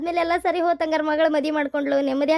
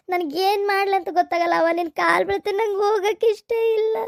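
crying; 3 semitones higher than usual. Acted. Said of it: "ಅಳ್ಬೇಡ".

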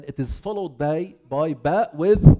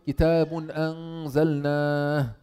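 Quran recitation. Shown as a demonstration. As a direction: recite it the way the verse is read. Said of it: "الله تعالى قال".

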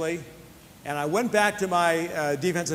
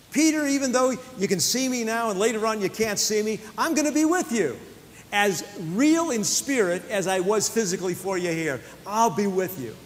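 voicing Jesus to Peter; 4 semitones higher than usual.

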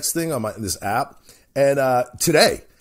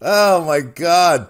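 exasperated; 5 dB louder, much slower than usual. Real, not acted. Exasperated exclamation.

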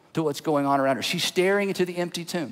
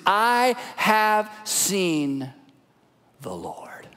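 slow then whispered; much slower than usual. Acted. Mary brings the news.

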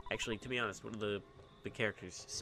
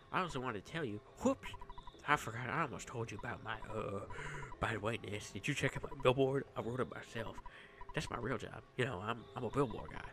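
Liar Exaggerat. Billboard guy tells Ness about the meteorite, lightly put-on character voice. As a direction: play a chatty, boastful townsman with lively pitch swings. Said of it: "don't have to do that voice".

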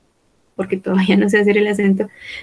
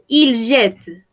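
slow model sentence; 3 dB louder than usual. Shown as a demonstration. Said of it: "on dit".

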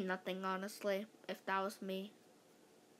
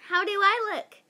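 put-on higher, louder fussy girl; girly primping voice; 8 semitones higher, 7 dB louder than usual. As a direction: ask it like a vain little girl. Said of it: "asked Andrea".

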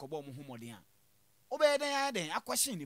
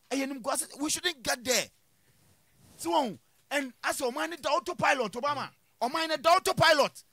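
loud, high-pitched outraged complaint; real heated indignation; 7 semitones higher, 9 dB louder than usual. Real, not acted. Panelist decrying the country on autopilot, loudly indignant. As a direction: raise your voice in exasperated protest.

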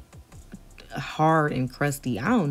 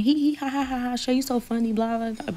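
mock laughter; 7 semitones higher than usual. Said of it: "So they all laughing".

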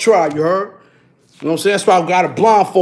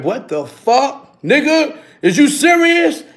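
wife, incredulous; 6 semitones higher, slower than usual. Retold or imitated. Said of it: "She like".

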